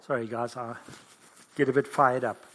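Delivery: real tearful apology, low voice; preacher overcome mid-sermon; choked up, crying. Real, not acted. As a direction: apologise through tears, sinking to softness. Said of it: "The crying preacher".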